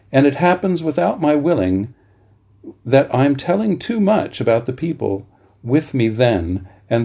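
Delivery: measured, earnest reading of a memoir passage; literary reading voice; reading aloud. A narrator's reading. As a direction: read it like a cherished book. Reads Fisher's foreword aloud.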